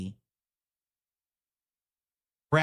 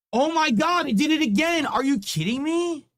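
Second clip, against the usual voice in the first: real disbelief; 11 semitones higher than usual. Real, not acted. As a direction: shriek it out, can't believe it broke again. Bug happens again on stream.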